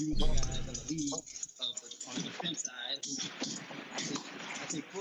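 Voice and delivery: muffled bad connection; underwater sound. Real, not acted. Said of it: "you sound like you're underwater".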